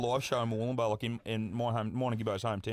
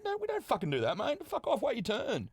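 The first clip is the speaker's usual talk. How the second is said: retold scolding; 10 semitones higher than usual. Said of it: "I said".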